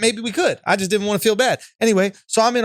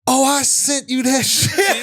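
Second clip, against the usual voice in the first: laughing confession; 4 semitones higher, slower than usual. Retold or imitated. Jamil confesses the prank, laughing.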